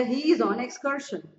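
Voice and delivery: slow, careful example sentence; slow teaching read. Shown as a demonstration. Teacher reading an example to the class, slowly. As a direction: spell it out slowly for students. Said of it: "excursion मतलब picnic".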